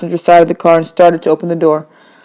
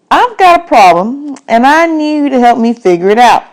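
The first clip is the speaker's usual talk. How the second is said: a man asking for help, a bit higher; the man's voice; 7 semitones higher, 3 dB louder than usual. Acted. Man's voice in audiobook.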